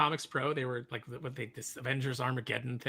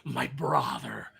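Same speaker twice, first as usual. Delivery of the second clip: overacted my brother; much slower than usual. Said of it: "because of the overacting of the guy".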